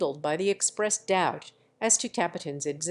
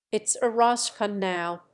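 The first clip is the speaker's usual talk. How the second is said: usual speaking voice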